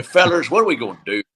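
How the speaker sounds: fast, folksy Southern coach voice; Coach's Southern drawl. Retold or imitated. A former player imitates his high school coach's Southern accent. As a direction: imitate the coach barking at the team. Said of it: "he talked like this".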